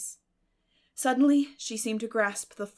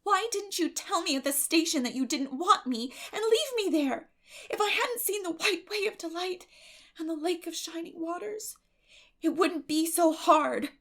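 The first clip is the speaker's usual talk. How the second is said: high, loud reproach; reproachful plea; 9 semitones higher, 6 dB louder than usual. Acted. Girl turning to Matthew, reproachful plea. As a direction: accuse him with hurt. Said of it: "she added reproachfully".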